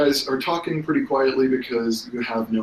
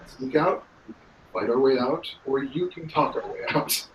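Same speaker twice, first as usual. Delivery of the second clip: hoarse; 2 semitones higher than usual. Acted. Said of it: "sort of hoarsely".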